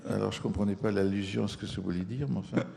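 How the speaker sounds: laughing. Real, not acted. Laughing at the teacher's jab.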